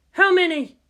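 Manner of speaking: high, loud urgent question. Acted. Officer demanding a count in battle, urgent. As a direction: snap the question out fast. Tense battle command room.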